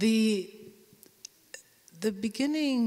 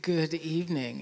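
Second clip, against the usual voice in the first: breathy voice. Shown as a demonstration. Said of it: "in this very breathy voice".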